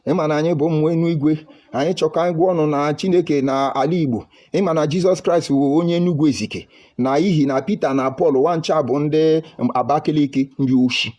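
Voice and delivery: mock sermon, rousing the crowd; a hint of a priest preaching to his congregation; imitating Mbaka preaching. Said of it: "then Mbaka will enter".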